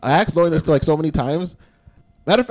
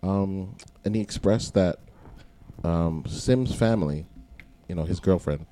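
news reporter voice; 3 semitones lower than usual. Acted. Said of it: "like, news reporter voice on".

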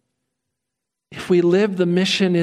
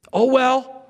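resigned sigh; 4 semitones higher than usual. Retold or imitated. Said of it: "We can give up".

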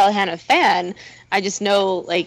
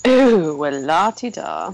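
slow, stiff robot butler drawl; prim mechanical butler, nervously; anxious butler robot; 2 semitones lower, slower than usual. Pretend. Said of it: "La-ti-da is way better in a robot voice".

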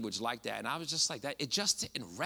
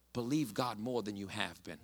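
quieter and lower, drawing them in; soft, intimate emphasis; 4 semitones lower, 7 dB quieter than usual. Real, not acted. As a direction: say it softly, leaning close. Repeating the key line softly.

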